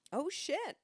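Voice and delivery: whispering. Real, not acted. Whispered reaction.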